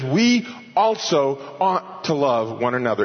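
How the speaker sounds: "we" stressed and held before going on; emphatic WE. Shown as a demonstration. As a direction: set "we" apart with firm emphasis. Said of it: "shows that this "we" is emphatic".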